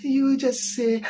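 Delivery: slow, drawn-out officiant cue; mock pastor prompt. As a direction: drawl it like a pastor leading vows. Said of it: "Dear sofu beke bia".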